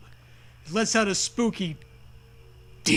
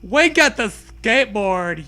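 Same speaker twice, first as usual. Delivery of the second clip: mock yell; 3 semitones higher, 7 dB louder than usual. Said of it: "you yell at Zoe".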